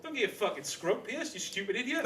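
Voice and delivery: high, loud scolding shout; mock yell. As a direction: yell at your younger self. Shouting at younger self.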